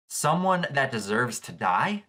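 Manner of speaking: slow, rising echo in disbelief; stunned question with a rising end; incredulous echo. Real, not acted. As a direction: repeat it like you can't believe she said it. Echoes the line in disbelief.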